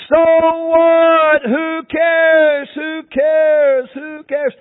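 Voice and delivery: high, loud dismissive mother's reply; echoing mother who does not care; uncaring mother. Acted. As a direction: brush the child off, mocking. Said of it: "Even your mother has forsaken you".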